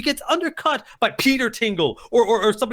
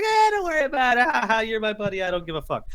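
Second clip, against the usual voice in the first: laughing brush-off. Retold or imitated. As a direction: wave it away with a mock chuckle. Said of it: "he's laughing at the fact".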